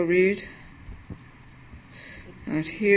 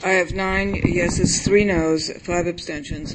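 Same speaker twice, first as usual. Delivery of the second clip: speaking up; 4 dB louder than usual. Real, not acted. Secretary repeats the vote tally after being told, speaking up. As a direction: raise your voice so the room hears the tally. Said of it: "you have to speak up".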